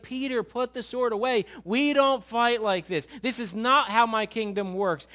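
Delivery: loud, high, emphatic command; stern rebuke. Acted. Jesus tells Peter to put the sword away, stern rebuke. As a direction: firmly order a friend to stand down, loudly.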